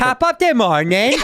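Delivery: slow, giggly imitation of his English accent; mocking a bad English accent. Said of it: "English accent with an Irish phrase".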